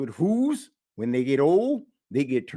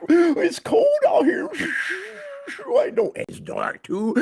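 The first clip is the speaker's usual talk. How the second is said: shivering animal; 4 dB louder than usual. Acted. Huddled animals complain of the cold night, whining high. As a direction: whimper from the cold.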